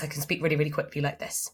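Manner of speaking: a quick demo of fast talking; fast pace. Shown as a demonstration. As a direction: rattle it off quickly. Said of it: "If I have a fast pace".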